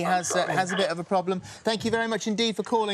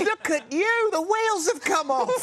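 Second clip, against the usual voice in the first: high, loud laughing exclamation; host cracking up at a guest's joke, laughing loudly; laughing shriek; 13 semitones higher, 4 dB louder, slower than usual. Real, not acted. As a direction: crack up while calling out. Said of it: "host losing composure".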